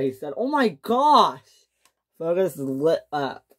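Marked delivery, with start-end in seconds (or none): 0.4-1.7 slow, high, breathless delight; thrilled gasp. Acted. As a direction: stretch it out like you can't believe your luck. Fergus thrilled by mainland trip.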